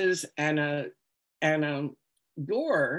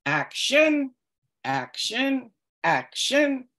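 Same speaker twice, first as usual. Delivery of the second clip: raised, higher repeated call; calling action; 7 semitones higher, slower than usual. Retold or imitated. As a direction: call it out like a director. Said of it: "And then he says".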